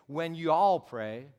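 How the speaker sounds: slow and loud, "all" drawn out; stress on ALL. Shown as a demonstration. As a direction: stretch "all" so it takes in everyone. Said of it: "in the original Greek, it's".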